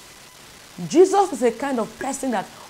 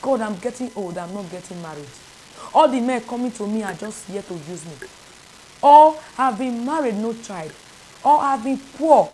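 complaining prayer; 4 dB louder than usual. Shown as a demonstration. Preacher voicing a lonely woman's prayer, earnest pleading. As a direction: plead your troubles to God, rising at each "or". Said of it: "So now ask".

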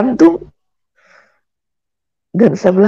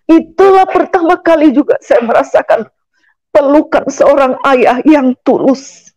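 moved; 6 semitones higher than usual. Real, not acted. Moved testimony of father's embrace.

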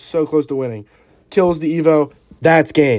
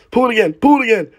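higher, louder urgent command; urgent urging; 9 semitones higher, 5 dB louder than usual. Real, not acted. Gamer urging his troop to pull again, urgent higher call. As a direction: urge it on, twice.

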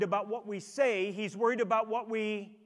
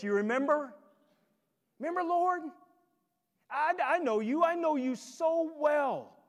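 higher, eager voice begging to be recognised; pleading false believer; 4 semitones higher than usual. Retold or imitated. Preacher voicing a would-be follower pleading with the Lord, higher and eager. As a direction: play a churchgoer insisting he knows Jesus, voice pitched up. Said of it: "plenty of people who say, "Lord, Lord".

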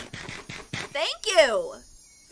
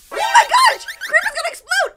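high, loud squeal of alarm; sudden high-pitched panic; excited alarm; 12 semitones higher, 8 dB louder than usual. Real, not acted. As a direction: shriek out a playful warning. Mock panic at game characters.

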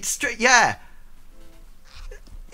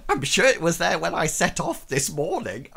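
laughing. Real, not acted. Laughing joke.

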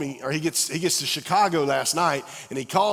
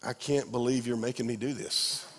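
grouse under your breath; mock grumbling; 2 semitones lower, 6 dB quieter than usual. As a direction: worker forced into a bad day's task, sulky. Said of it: "other days it's like".

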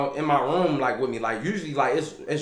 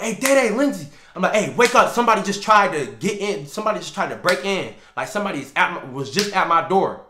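urgent call; 3 semitones higher than usual. Retold or imitated. Man waking his roommates after a break-in, urgent calling. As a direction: rouse your roommates fast.

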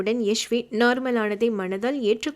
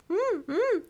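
high muffled hums through a covered mouth; soft muffled mm mm; muffled humming; 9 semitones higher, 3 dB quieter, much slower than usual. Acted. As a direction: protest through a hand. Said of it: "என்று முணங்க".

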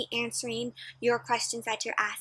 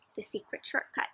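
hushed; 7 dB quieter than usual. Acted. Hushed secret title.

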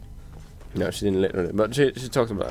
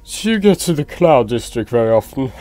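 higher, louder mock snob; imitated snob, ending in a laugh; Nazim; 5 semitones higher, 6 dB louder than usual. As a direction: put on a haughty character's condescending question. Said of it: "Fuck you, Nazim".

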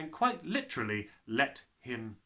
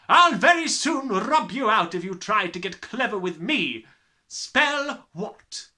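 loud, higher threats; menacing headmistress; 7 semitones higher, 9 dB louder than usual. Acted. Headmistress warning the clever boy. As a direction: threaten him coolly.

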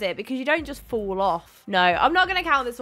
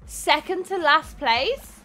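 slow, stunned rising question; disbelieving echo; 4 semitones higher, slower than usual. Real, not acted. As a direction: repeat "Second to last place?" slowly in disbelief. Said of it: "I got second to last place".

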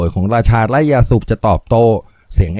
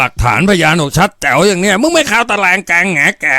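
lightly voiced sneering thug, a bit higher; gloating thug; 5 semitones higher than usual. Lightly voiced thug Jan taunting the stranger he caught. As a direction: taunt him, sure you've won.

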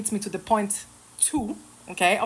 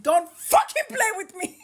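mocking voice; 12 semitones higher than usual. Mocking imagined tough commenter.

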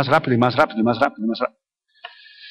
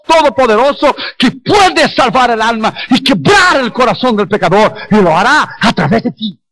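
driving, insistent exhortation with rising pitch; fervent preaching. Real, not acted. Preacher urging believers to testify, fervent preaching. Exhorts congregation at full force.

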